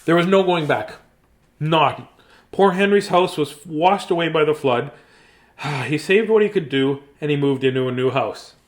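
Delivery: bright, lifted storybook read; animated storybook narration; reading to children. Acted. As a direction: read it out like a picture book for kids. Reading picture book aloud.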